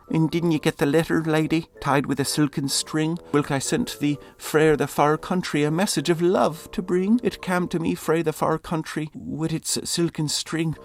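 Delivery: loud, high earnest suitor; pleading lover. Acted. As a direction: press the lady with each question.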